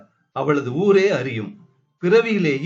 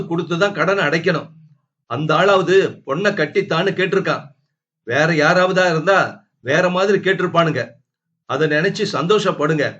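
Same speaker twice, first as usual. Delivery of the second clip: fast, raised angry scolding; furious retort; 3 semitones higher, 3 dB louder, faster than usual. Acted. Furious wife scolds the family over the debt, fast. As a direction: lash out at them. Wife, boiling, fires back.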